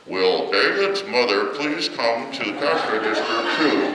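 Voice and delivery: slow, drawn-out PA announcement calling a parent; store loudspeaker announcement. Retold or imitated. Child lost in store hears mom paged, slow announcer voice. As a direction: read it like a store page over the speakers. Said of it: "I hear this loud voice".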